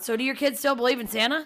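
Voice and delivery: booming oblivious question; mock loud retold dad. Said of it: "real loud".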